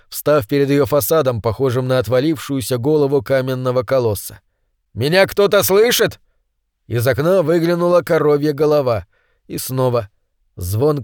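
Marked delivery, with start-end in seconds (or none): 4.9-6.2 higher, calling into emptiness. Acted. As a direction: call out to whoever might hear. Calls at the empty building.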